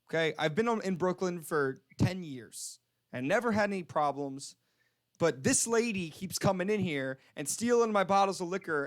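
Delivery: mildly acted fed-up rant; mad store clerk. Clerk ranting at a stranger about stolen liquor, mildly angry. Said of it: "he's so mad".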